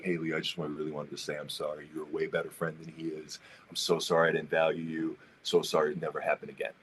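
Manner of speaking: soft, low, sheepish apology; meek apology. Retold or imitated. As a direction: mumble it like a sorry kid.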